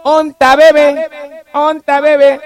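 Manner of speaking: put-on slow, sing-song baby talk; baby-talk call. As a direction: coo it like calling for a baby. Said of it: "¿dónde está el bebé?".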